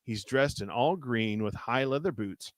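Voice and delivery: measured read-aloud storytelling; story narration. A narrator's reading. Reading a choose-your-path adventure aloud to a co-host, story narration. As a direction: narrate an adventure, lingering on the suspense.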